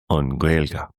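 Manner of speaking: an Gaeilge said as "un GWEL-geh"; Irish word said natively. Shown as a demonstration. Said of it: "speaking in an Irish way".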